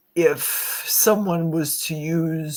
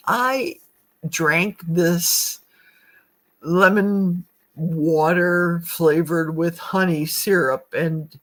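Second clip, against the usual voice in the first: ad testimonial voice; 2 semitones higher, slower than usual. Retold or imitated. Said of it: "it's an image of Oprah".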